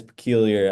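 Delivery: peculiar said the English way; English pronunciation. Shown as a demonstration. Comparing languages for the host, peculiar in English. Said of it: "In English, that's".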